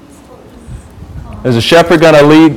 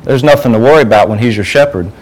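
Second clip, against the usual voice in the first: usual speaking voice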